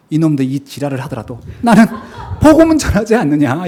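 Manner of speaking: laughing half-shout of resolve; defiant outburst. Retold or imitated. Teacher's imagined defiant vow, laughing half-shout.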